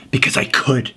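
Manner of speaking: unvoiced smug whisper; villain whisper. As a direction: breathe it like a sinister secret.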